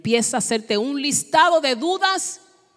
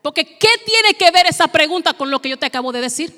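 higher-pitched exasperated challenge; indignant; 4 semitones higher than usual. Acted. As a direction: protest as a mock-offended Moses. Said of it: "I would have gotten mad". (reclamo indignado, en tono más agudo)

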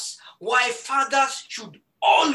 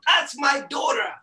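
mock proud shout. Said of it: "I was screaming out".

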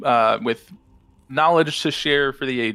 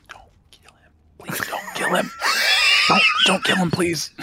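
stage whisper. Acted. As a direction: hiss it so all can hear. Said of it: "I'm whispering, stage whisper".

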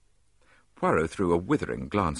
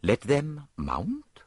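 higher, very slow and grand; higher, slow Poirot; 7 semitones higher, much slower than usual. A narrator's reading. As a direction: savour each word as Poirot. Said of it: "said Poirot".

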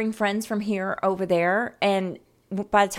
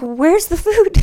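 put-on kids whining; 10 semitones higher, 12 dB louder than usual. Kids complaining at party.

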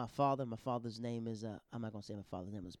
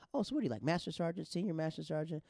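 much higher, louder smug voice; patronizing guess; 6 semitones higher, 3 dB louder than usual. Retold or imitated. Sergeant guesses dad's rank, higher patronizing voice.

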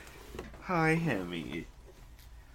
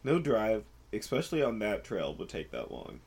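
sick storytelling voice. Real, not acted. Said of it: "Sick storytelling voice".

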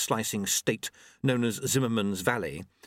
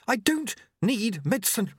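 shouting; 11 semitones higher than usual. A narrator's reading. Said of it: "Jeremy shouted".

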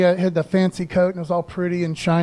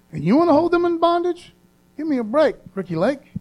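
mock-outraged high exclamation; indignant rebuke; 7 semitones higher than usual. God demanding why they hold people in bondage, indignant. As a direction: scold like an offended God.

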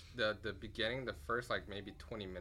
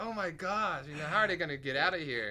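anxious; 6 semitones higher, 6 dB louder than usual. Retold or imitated. Reliving tense car scene.

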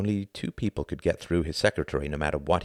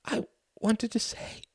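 high, thin voice over the telephone; small tinny voice of a fretful mother; Ruth, tinny voice; slower than usual. A narrator's reading. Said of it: "said Ruth's tinny voice".

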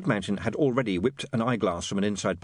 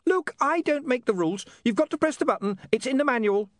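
giggly sneering imp; 14 semitones higher, 3 dB louder than usual. Acted. Imp defensive.

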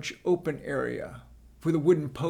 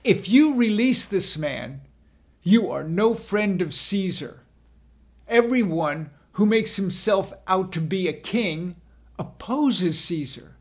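loud, higher crowd cry; 4 semitones higher, 6 dB louder than usual. A narrator's reading. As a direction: warn him loudly. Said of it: "the Jews cried out".

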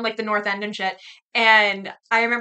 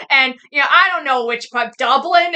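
put-on Boston accent; 3 semitones higher, 6 dB louder than usual. Man on a date claiming Irish roots, imitated Boston accent. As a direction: mimic a boastful Boston local, loudly. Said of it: "'Cause they got the accent".

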